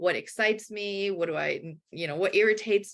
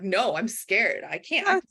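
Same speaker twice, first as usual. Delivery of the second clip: freaking out; 4 semitones higher, 3 dB louder than usual. Retold or imitated. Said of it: "like, freaking out".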